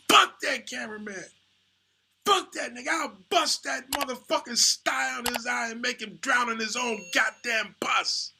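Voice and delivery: mock enraged shout, way up in pitch; raging shout. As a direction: bellow it like you mean every word. Charlie raging about cameraman.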